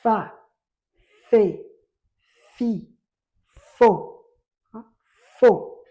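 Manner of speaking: fa, fe, fi, fo called out loud; teacher drilling syllables aloud. Shown as a demonstration. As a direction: chant the syllables loudly. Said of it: "teacher drilling syllables".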